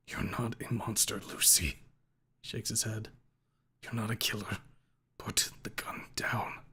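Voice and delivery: quiet, slowing whisper; soft plea. A narrator's reading. Father softly pleading with Lucy to drop the gun. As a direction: gently talk her down.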